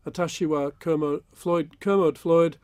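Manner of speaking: careful slow Japanese self-introduction; Japanese learner accent. Shown as a demonstration. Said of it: "give us a little bit of it".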